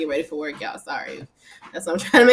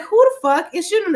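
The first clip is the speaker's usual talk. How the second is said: startled outburst; 10 semitones higher, 5 dB louder than usual. Retold or imitated. Retelling her reaction to gunfire.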